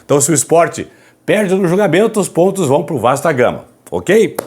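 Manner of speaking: hushed, hoarse voice from a sore throat; raspy whisper. Real, not acted. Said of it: "Falando baixinho aqui".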